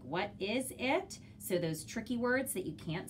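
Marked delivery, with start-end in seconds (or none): 0.0-1.2 slow, clear sight-word read; reading to a toddler. Shown as a demonstration. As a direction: read it slowly for a child.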